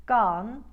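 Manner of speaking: "gone" with the o slightly wider; loud Bronx "gone", vowel a little open; Brooklyn vowel. Shown as a demonstration. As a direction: widen "gone" slightly from neutral. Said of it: "all three variations".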